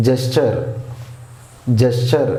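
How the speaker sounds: జెస్చర్ with a clear "cha" in the middle; cha sound. Shown as a demonstration. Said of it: "చా sound వచ్చింది". (జెస్చర్ లో చా sound)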